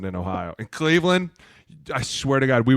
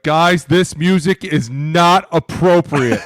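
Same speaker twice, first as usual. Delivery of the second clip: slow, higher, louder prissy complaint; prim scolding kicker; 6 semitones higher, 9 dB louder, much slower than usual. Retold or imitated. Kicker objecting to locker room music, slow prim scold. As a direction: draw it out like a disapproving chaperone.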